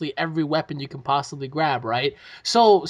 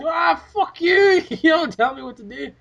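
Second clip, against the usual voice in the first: bratty recruit; 9 semitones higher than usual. Retold or imitated. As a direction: talk back like a brat. Recruit talking back.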